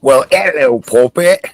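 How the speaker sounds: put-on playful stab at a northern British accent; mock British accent. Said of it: "let me try this".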